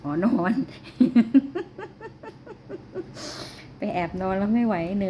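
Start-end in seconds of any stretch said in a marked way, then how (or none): 0.6-3.7 a burst of high laughter; falling giggle. Real, not acted. Mother laughing at the cats.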